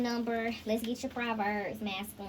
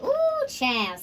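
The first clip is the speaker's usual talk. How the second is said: excited exclaim; 10 semitones higher, 7 dB louder than usual. Real, not acted. Excited exclamation mid reading.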